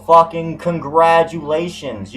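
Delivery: slow, drawn-out sarcasm; mock him with fake praise; sarcastic congratulations. Real, not acted. Vlogger sarcastically congratulates a rival, slow sarcasm.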